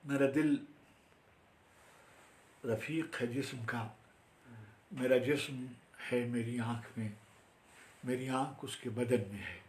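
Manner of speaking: measured Urdu verse, short phrases; formal mushaira recital; poetry recitation. Acted. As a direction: set each phrase apart with a pause. Recites own Urdu poem.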